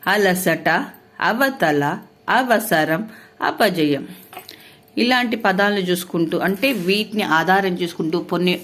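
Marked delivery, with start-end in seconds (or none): 0.1-4.0 four-letter words said one by one, clear; word list. Shown as a demonstration. Teacher reading four-letter example words, clear and spaced. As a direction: read each example word out. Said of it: "నాలుగు అక్షరాల పదాలు చూద్దాం".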